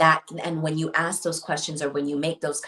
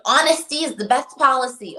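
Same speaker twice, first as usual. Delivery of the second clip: high, loud mock of a cliche; sarcastic; 10 semitones higher, 7 dB louder than usual. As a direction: scoff at the old saying. Mocking a saying, high loud.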